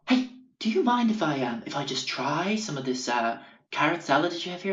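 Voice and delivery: high, airy mock hippie voice; hippie customer. Hippie customer asking the waiter for salad, in a high mock voice. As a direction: put on a dreamy hippie lilt.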